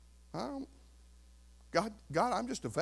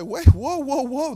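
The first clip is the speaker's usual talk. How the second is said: loud stop; 7 semitones higher, 10 dB louder, slower than usual. Pretend. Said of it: "And you have to say".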